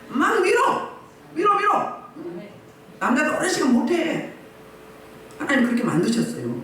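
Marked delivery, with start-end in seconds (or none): 0.1-2.0 high-pitched, driving push; insistent, high exhortation; urgent urging. Acted. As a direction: egg them on, pitched well up. Acting out pushing through with prayer.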